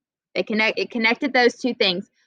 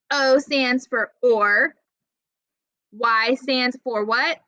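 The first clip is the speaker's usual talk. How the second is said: slow, teaching pace; slower than usual. Shown as a demonstration. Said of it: "help you remember".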